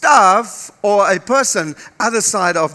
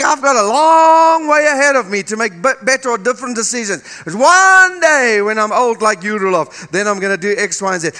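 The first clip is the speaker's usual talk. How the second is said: mock careless young voice, a bit loud; imitating young people; 4 dB louder than usual. Preacher mimicking under-thirties putting off decisions, mock shout. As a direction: play the carefree youth. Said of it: "you think".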